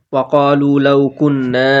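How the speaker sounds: slow, drawn-out Arabic recitation; Quran recitation demo. Shown as a demonstration. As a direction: stretch the ghunna on কুন্না. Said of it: "এক আলিফ টান দেওয়া হবে". (কুন্না টেনে গুন্না সহ পড়া)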